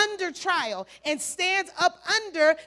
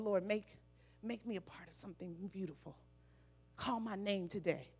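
much softer, lower murmured prayer; mild quiet prayer; 7 semitones lower, 6 dB quieter than usual. Retold or imitated. Preacher retelling her airport prayer, soft murmured. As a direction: pray under your breath.

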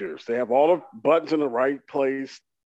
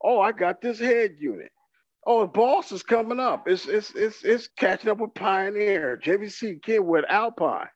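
lightly mocked reviewer, pitched higher; a higher-pitched take-off of reviewers; gushing YouTube reviewer; 5 semitones higher than usual. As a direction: imitate an online reviewer hyping gear. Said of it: "you reviewers for on YouTube talking about".

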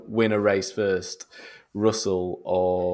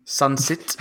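put-on South African accent, rising; 4 semitones higher than usual. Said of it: "good to say in a South African accent".

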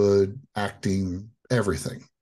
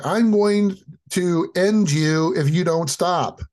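mock threatening dad; 7 semitones higher, 4 dB louder than usual. Dad threatening through door.

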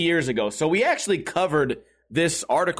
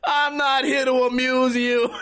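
mock Italian accent; 6 semitones higher than usual. Drunk man taunting an offended stranger, exaggerated Italian accent. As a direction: draw out every word, mocking his Italian accent. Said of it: "making fun of his Italian accent".

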